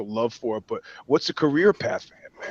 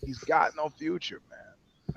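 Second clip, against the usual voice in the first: dropped to a mutter; 11 dB quieter, slower than usual. Real, not acted. Trails off after the shout.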